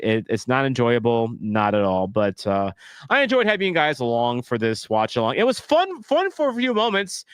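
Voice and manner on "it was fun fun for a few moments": sarcastic. Real, not acted. Sarcastic remark on a bad match.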